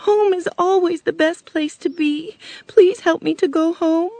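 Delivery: put-on high, crying little-girl voice; tearful. A narrator's reading. Homesick Dorothy begs the witch for help, tearful. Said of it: "The girl went on crying".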